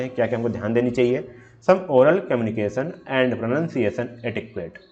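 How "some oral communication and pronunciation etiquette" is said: reading the slide slowly and deliberately; slow, careful slide reading; slow read-aloud. Shown as a demonstration. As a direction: dictate each word of the definition.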